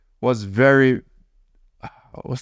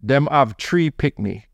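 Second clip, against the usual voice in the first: slow Jamaican patois, tree for three; slower than usual. Shown as a demonstration. Husband demonstrating the Jamaican phrase to his wife, slow patois. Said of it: "say it with a word".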